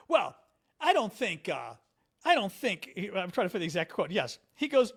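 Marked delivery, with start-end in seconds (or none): 0.1-2.9 JD Vance. Retold or imitated. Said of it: "And Vance goes".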